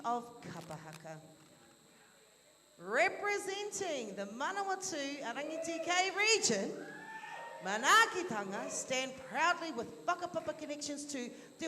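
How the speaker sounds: measured formal introduction voice; formal announcement. Real, not acted. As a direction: introduce the group with ceremony.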